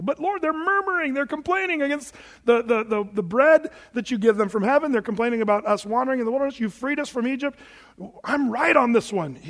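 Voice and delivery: high-pitched indignant excuse; worked-up self-justifying complaint; pleading protest. Acted. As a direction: argue your case to the boss. Moses protesting to the Lord.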